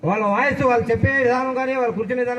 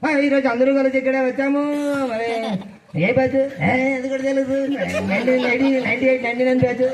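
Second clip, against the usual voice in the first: lightly voiced film-star swagger; a hint of a hero's punchy stage voice; Balakrishna mimicry. Greeting old batchmates, lightly mimicking a film star. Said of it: "Balakrishna గారి voice ఎలా ఉంటుంది?".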